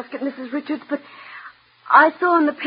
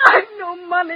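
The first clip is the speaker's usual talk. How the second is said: tearful protest; weeping, words caught in sobs; crying; 3 semitones higher than usual. Acted. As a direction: sob it out helplessly. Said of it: "stop crying".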